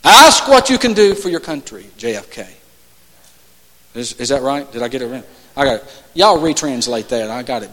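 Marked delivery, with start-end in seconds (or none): 0.0-1.8 attempted New England accent in a famous speech; lightly imitated New England accent. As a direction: try a JFK-style New England accent. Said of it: "I'm trying to do my New England accent".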